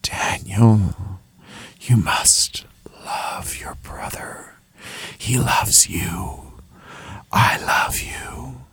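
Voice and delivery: slow, tender whisper with long pauses; elusive ghostly voice. A narrator's reading. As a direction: whisper like a father's voice carried on wind. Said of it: "elusive as a face in the clouds".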